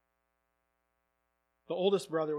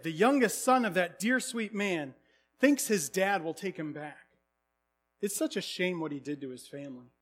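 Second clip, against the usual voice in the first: gossiping townsfolk; 4 semitones higher, 8 dB louder than usual. Retold or imitated. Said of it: "the rumor mill flew ahead".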